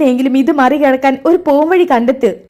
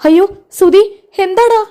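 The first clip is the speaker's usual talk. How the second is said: alarmed; 8 semitones higher than usual. Acted. Mother startled as her son rushes in. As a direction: jump at the news.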